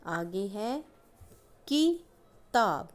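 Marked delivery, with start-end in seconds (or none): 1.7-2.9 किताब read slowly, higher and louder, each syllable marked; slow, clear reading. Shown as a demonstration. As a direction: call out किताब slowly to the class. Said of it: "किताब में हम छोटी की मात्रा". (धीरे और ज़ोर से, हर अक्षर अलग)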